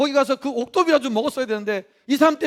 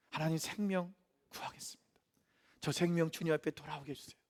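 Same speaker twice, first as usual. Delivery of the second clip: whispered prayer; 8 semitones lower, 16 dB quieter than usual. Acted.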